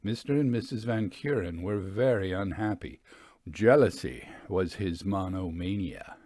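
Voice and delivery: measured storyteller reading a ghost tale; story narration. A narrator's reading. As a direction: read it like an old-fashioned narrator. Reads story narration aloud.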